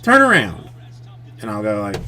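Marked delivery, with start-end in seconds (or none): 0.0-0.7 put-on child asking. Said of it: "she'll say, like".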